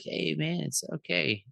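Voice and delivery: a hint of a celebrity impression; David Spade. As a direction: raise the pitch a little, easygoing retold quote. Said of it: "that distinct, like, voice".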